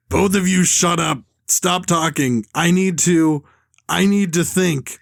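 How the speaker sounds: a lightly voiced agitated villain; Herman, agitated villain. Villain tells hostages to shut up, mildly agitated. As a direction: read it as a mildly rattled villain. Reads Herman's lines from script.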